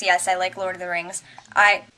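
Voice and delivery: talking while chewing chips; mouth full. Real, not acted. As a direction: speak round a mouthful. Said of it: "I'm eating chips and salsa".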